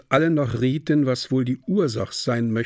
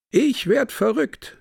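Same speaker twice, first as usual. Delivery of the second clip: put-on high, drawn-out outburst from a drunk lout; a drunk carousing lout, slow and high; drunken lout; 11 semitones higher than usual. A narrator's reading. Drunk Costello blurts to his carousing companions, drunken outburst. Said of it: "welcher berauscht war".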